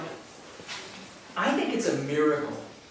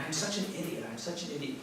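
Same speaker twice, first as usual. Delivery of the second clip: self-critical mutter; 8 dB quieter, faster than usual. Retold or imitated. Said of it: "you're going".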